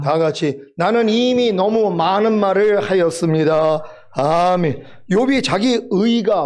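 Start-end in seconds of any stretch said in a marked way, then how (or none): 0.8-3.8 slow, measured unison-reading cadence; scripture reading. Acted. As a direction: lead the congregation through the verse, drawn out. (천천히 또박또박 이끄는 성경 봉독)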